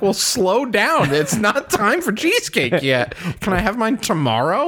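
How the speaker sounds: mock pleading. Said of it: "And I'm like".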